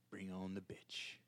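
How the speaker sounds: soft whispered repeat; whispering. Shown as a demonstration. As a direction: whisper it to yourself. Repeats line, second whispered.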